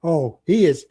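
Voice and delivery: conspiratorial whispered aside. Real, not acted. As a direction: whisper it behind your hand. Aside about adopted son.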